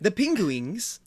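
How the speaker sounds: "penguins" said as PING-gwings; imitated mispronunciation. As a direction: say "penguins" wrongly as "pingwings". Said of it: "slightly different ways, but all of them wrong".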